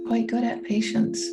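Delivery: calm guiding voice with long, spacious pauses; guided meditation. Real, not acted. Coach guiding listeners through a meditation on patience, calm and unhurried. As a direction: lead them gently into stillness, leaving room to breathe.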